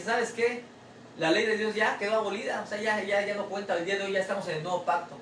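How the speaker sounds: mock-confident imitation; mocking quote. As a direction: parody those who say the law is gone. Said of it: "Hay gente que dice".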